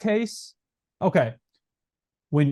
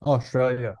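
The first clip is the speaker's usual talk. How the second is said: mock Australian accent; 2 semitones lower, slower than usual. Mimicking Australian accent after hearing country.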